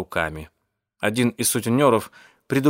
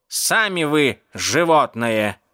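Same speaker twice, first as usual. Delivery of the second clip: slow, drawn-out indignant retort; 3 semitones higher, much slower than usual. Acted. Cat answers the old cat lady, indignant. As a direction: throw the insult back, stretching the words. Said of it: "возмутился кот".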